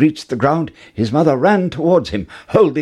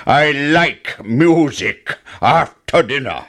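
giant voice; 3 semitones higher, slower than usual. A narrator's reading. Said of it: "roared the giant".

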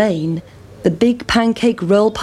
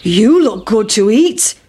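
cow; 4 dB louder than usual. Acted. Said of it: "shouted the cow".

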